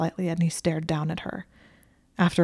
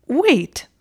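a high, louder, startled "Wait"; choked surprise; 8 semitones higher, 7 dB louder than usual. Acted. Draco stunned by her objection, choked surprise. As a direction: caught off guard mid-breath. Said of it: "Malfoy choked".

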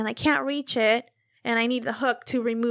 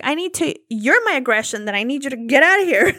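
laughing mock shout; 5 dB louder than usual. Retelling shooing Kyle away.

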